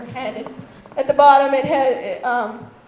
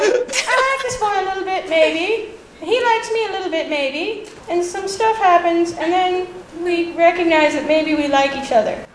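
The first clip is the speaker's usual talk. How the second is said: put-on higher, tentative manga-girl parody; mock wistful heroine; 4 semitones higher than usual. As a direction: waver through a crush confession, mockingly. Sums up tentative manga romance heroines.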